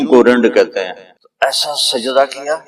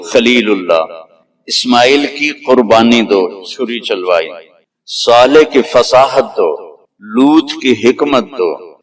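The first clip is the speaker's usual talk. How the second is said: preaching litany; slower than usual. Acted.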